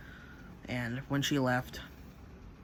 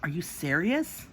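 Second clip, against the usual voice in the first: acted angry disbelief, drawn out and higher; retold indignant confrontation; mad as hell; 5 semitones higher, slower than usual. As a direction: demand it slowly, rising at the end. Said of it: "mad as hell".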